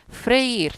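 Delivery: emphatic two-syllable "Freír"; vowels in hiatus. Shown as a demonstration. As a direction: stress the í of "Freír" apart from the e. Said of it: "se separa".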